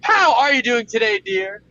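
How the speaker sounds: loud, fast morning show announcer; radio host. Acted. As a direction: hype up the show like a DJ. Introducing co-hosts on show.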